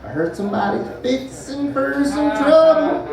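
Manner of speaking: slow, high, hammed-up southern redneck threat. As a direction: drawl it out like a hillbilly picking a fight. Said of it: "If they're doing this".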